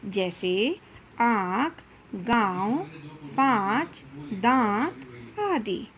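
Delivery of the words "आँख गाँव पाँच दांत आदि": आँख, गाँव, पाँच said through the nose and throat, दांत drawn out slowly; nasal vowel. Shown as a demonstration. Teacher demonstrating the anunasik to children. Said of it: "इसे नाक और गले दोनों से बोला जाता है".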